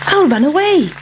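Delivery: the pancake hatching its escape plan; lightly voiced cheeky pancake. A narrator's reading. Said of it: "thought the pancake".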